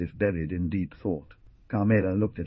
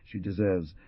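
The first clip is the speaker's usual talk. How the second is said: brutal threat; 2 semitones higher than usual. Acted. Ruperto threatening the young man over the girl, brutal. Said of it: "and said brutally".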